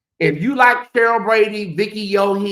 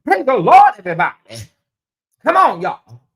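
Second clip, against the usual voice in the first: put-on church twang; 6 dB louder than usual. Mocking a sister girl's put-on churchy twang. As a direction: ham up a churchy sister girl greeting. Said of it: "They be putting like a little".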